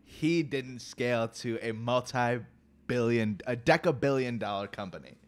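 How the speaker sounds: loud, slow insistence; emphatic. Real, not acted. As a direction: hammer the point home slowly. Arguing his point, invited to.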